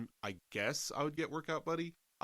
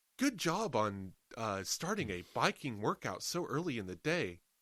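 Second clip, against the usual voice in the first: mock bright, cheery, chipper, upbeat automated app voice. Retelling what a voice said during a bike ride, imitating a chipper voice. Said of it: "I got this chipper voice".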